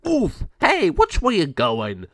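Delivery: high, loud, slow gargoyle grumble; bumped gargoyle. Acted. Gargoyle after crashing into another, high and loud. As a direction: grunt then complain like a clumsy monster.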